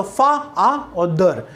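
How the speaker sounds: "फा" with its vowel repeated as "आ", then "दर"; split into syllables. Shown as a demonstration. Teacher shows father has two syllables, "फा" and "दर" said apart. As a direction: sound out "फा, आ" and "दर" separately. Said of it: "दो syllable हैं".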